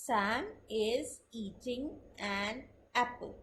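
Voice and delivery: very slow, word-by-word reading of Sam is eating an apple; slow textbook reading; reading aloud. Shown as a demonstration. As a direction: read each word out separately and evenly. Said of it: "अब अगर मैं इसको पढ़ते हुए बोलूंगी".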